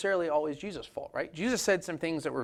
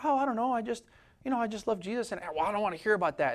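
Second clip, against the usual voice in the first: flustered innocent reply; 5 semitones higher, faster than usual. Retold or imitated. Believer answering, flustered.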